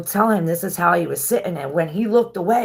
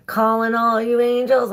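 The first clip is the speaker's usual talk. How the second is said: loud higher summoning call; 5 semitones higher, 4 dB louder than usual. Retold or imitated. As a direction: call out to the angels. Calling angels in the story.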